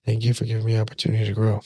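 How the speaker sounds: quick, soft and relaxed thank you; calm easy thanks. Retold or imitated. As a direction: toss off the thanks with no anger left. Calm thanks after weeks.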